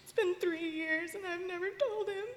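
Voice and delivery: tearful confession about her father; real crying. Real, not acted. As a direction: push the words through sobs. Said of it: "I'm sorry I'm crying".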